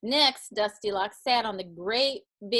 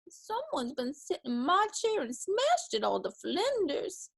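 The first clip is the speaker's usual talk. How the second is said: high, small cub voice; squeaking bear cub; 7 semitones higher than usual. A narrator's reading. Bear cub finding his chair smashed, squeaky voice. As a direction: squeak the complaint in a high pitch. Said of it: "a little bit bigger voice".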